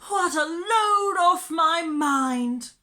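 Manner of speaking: high, loud gushing relief; loud relieved sigh. Acted. Miss Lark watching her dog return, sighing loudly. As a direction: sigh it out big and shrill with relief. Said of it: "sighing loudly".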